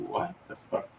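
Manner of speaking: high breathless gasp of disbelief; shocked disbelief. Retold or imitated. Father hearing the doctor's diagnosis, high breathless disbelief. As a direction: squeak it out in utter shock. Doctor explains vagal fainting.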